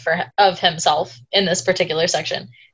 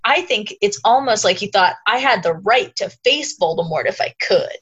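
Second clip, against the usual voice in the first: Mike impression; 3 semitones higher than usual. Reading Harry's speech as a light Mike impression. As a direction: read the passage as a hint of Mike. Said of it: "delivered that whole thing in your Mike impression".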